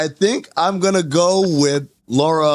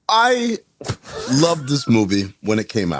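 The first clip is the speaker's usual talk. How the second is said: coming in hot. Real, not acted. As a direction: jump in with a sudden eager start. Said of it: "Why did you come in so hot?".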